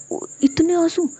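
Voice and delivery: shocked at the tears; sudden alarmed exclamation; alarmed gasp. Acted. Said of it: "वो घबरा जाती है".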